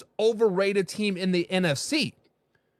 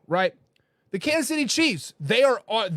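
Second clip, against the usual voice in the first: usual speaking voice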